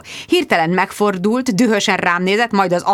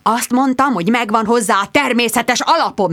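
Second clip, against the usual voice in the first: hissing; 4 semitones higher than usual. Acted.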